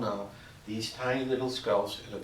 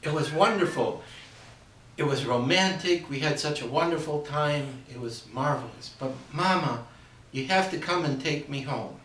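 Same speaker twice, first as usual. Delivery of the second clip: a hint of a gushing young bride, a little higher; lightly voiced bride, sweet then pleading; newlywed daughter; 3 semitones higher than usual. Bride telling her mother about the honeymoon, lightly voiced.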